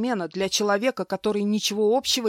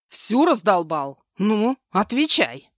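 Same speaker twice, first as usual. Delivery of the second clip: slow, louder demanding bark; 2 semitones higher, 6 dB louder, slower than usual. Acted. Husband interrogates his wife, slow louder demand. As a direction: press her hard for an answer. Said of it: "спросил требовательно".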